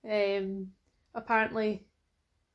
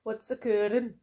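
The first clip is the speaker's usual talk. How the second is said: lightly attempted Welsh catchphrase; Welsh accent; slower than usual. Shown as a demonstration. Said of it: "I can barely do a Welsh accent".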